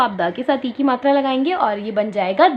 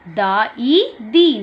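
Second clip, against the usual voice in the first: slow syllable blending; much slower than usual. Shown as a demonstration. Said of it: "आधा द और ई की मात्रा".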